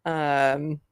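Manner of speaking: ordinary delivery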